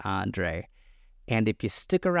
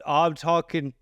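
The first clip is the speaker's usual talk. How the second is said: put-on botched Maine accent. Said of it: "how dare you butcher that accent".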